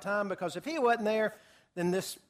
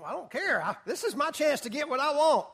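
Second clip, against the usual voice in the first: gleeful; 6 semitones higher than usual. Acted. Haman's greedy thought, voiced.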